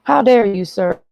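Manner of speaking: indignant shout at Chris; outraged. Real, not acted. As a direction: blast it at him in outrage. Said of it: "repeated indignant question".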